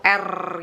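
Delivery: R with a clear trilled tongue; Indonesian rolled R. Shown as a demonstration. Teacher contrasts the Indonesian R, clearly rolled. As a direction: roll the R hard, Indonesian style. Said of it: "R-nya jelas banget tuh".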